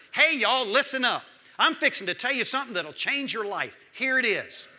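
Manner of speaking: grab the room: hey y'all; calling out. Acted. Preacher calls out to congregation.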